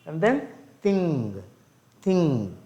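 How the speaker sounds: thing ending in a ringing ng with no k; thing demo. Shown as a demonstration.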